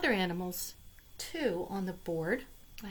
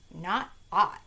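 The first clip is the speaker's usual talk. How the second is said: duck's refusal; 7 dB louder than usual. Acted. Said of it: "said the duck".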